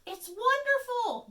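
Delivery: high, loud, slow delighted cheep. A narrator's reading. Bird delighted at the water in the pail, high cheep. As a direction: squeal with delight. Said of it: "Bird cheeped".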